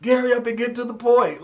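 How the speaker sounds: high, loud impatient complaint; mock pissed-off viewer. Streamer mimicking viewers fed up with long intro, impatient. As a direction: imitate an annoyed viewer hurrying you along. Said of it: "folks be so pissed off on the intro".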